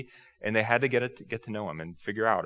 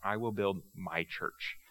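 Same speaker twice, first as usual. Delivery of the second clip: "I will build my church" repeated softer and slow; 5 dB quieter, slower than usual. Shown as a demonstration. Jesus repeating his promise, softer and slow. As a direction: let "I will build my church" sink in quietly. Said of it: "the real emphasis is Jesus saying".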